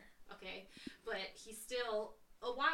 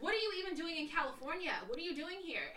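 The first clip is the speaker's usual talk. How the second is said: acted-out baffled demand; incredulous; 5 semitones higher than usual. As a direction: question him in bafflement, pitched up. Retold confronting unexpected visitor.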